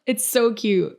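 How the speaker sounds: delighted first take; gushing. Real, not acted. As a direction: squeal it a little, charmed. Gushing over a fan's comment.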